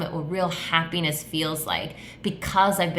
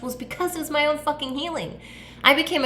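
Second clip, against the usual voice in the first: emphatic; 9 semitones higher than usual. Real, not acted. Emphatic confession.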